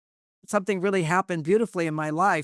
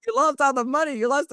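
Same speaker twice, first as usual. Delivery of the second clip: higher, accusing retelling of the wife; mock berating wife; 9 semitones higher, 3 dB louder than usual. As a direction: replay her blame, half-acted. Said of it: "wife went".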